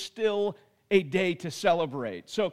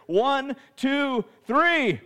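getting louder; 4 semitones higher, 3 dB louder, much slower than usual. Real, not acted. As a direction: count building to a shout. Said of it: "I'm actually gonna count to three".

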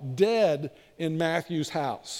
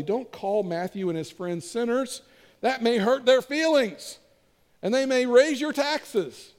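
raised, drawn-out warning, mildly hammed up; mock loud retort; 5 semitones higher than usual. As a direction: call it out slowly for the whole room. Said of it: "Jesus said just as loudly".

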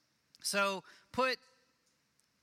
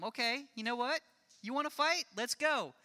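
higher-pitched, acted fighting challenge; defiant challenge; 5 semitones higher than usual. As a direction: stand up to a bully, pitch lifted. Acts standing up to a bully.

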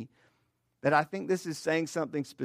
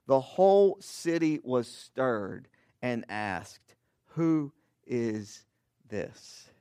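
scripture reading. Acted. Pastor reading scripture aloud to the congregation, measured. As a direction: read it out to the church, unhurried. Reads the gospel passage aloud.

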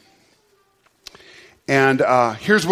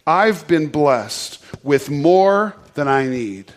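slow group affirmation; 3 semitones lower, much slower than usual. Shown as a demonstration. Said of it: "say that out loud with me".

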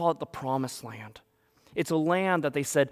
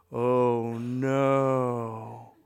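mock dismay; 2 semitones lower than usual. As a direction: groan it out in comic dread. Kid dreads drive through desert.

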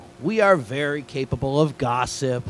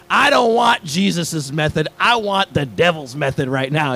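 mock-furious inner outburst, pushed a little louder; retold angry thought; 2 semitones higher, 3 dB louder than usual. Youth pastor inwardly answering a pious leader, mock exasperated. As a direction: hammer it out in comic exasperation. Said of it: "I'm thinking to myself".

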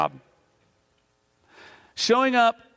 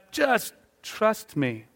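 reassuring; 3 semitones higher, much slower than usual. Retold or imitated. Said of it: "He goes".

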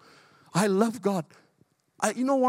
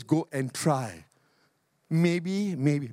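mock hesitant God; 4 semitones lower, much slower than usual. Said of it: "God never says".

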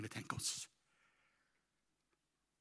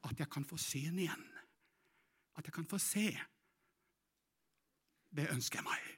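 indoor voice; 3 semitones higher, 3 dB quieter than usual. Acted. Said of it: "snakke med innestemme".

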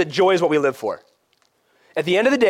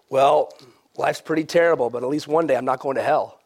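lower, glum mock voice; Debbie Downer; 4 semitones lower than usual. Mimicking Christians who say life is terrible, mock gloom. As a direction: imitate a resigned, downbeat believer. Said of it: "like, Debbie Downer perspective on life".

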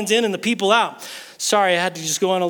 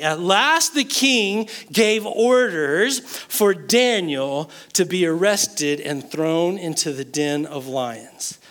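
ordinary delivery

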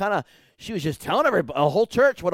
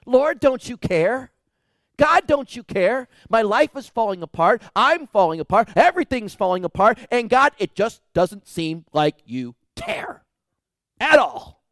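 loud, pleading, higher; anguished cry to God; 4 semitones higher, 6 dB louder than usual. Retold or imitated. Preacher voicing a desperate believer, loud pleading cry. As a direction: cry out to God as everything falls apart.

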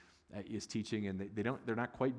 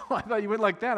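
laughing and high-pitched, much louder; 13 semitones higher, 12 dB louder than usual. Real, not acted. Pastor laughing at a congregant's thumbs up, laughing. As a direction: laugh through the words in disbelief.

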